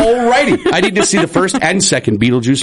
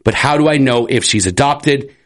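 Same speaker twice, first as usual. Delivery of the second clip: Rupert voice; slower than usual. Acted. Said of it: "that's the impression he's going with".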